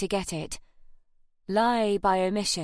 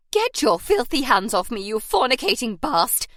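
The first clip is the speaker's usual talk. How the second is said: loud, higher, hysterical fury; shrieking abuse; 4 semitones higher, 5 dB louder than usual. A narrator's reading. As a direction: screech at him.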